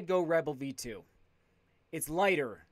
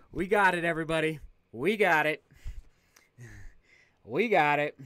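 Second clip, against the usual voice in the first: excited cheer; 2 semitones lower than usual. Real, not acted. Shoes arrive, cheering to viewers.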